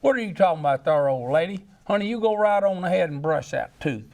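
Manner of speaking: barge in like a folksy husband. Acted. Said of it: "the husband comes in and says".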